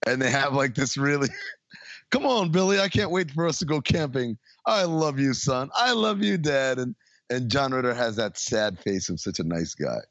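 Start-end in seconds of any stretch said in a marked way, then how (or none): 2.1-6.8 higher-pitched, hammed-up family affection; gushing father and son. Co-host mimics father and son before camping, gushing. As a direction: play a mock-loving dad and son.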